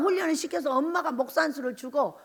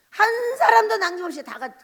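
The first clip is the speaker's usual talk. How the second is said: voice breaking; 7 semitones higher, 5 dB louder than usual. Real, not acted. Preacher cries mid-sentence.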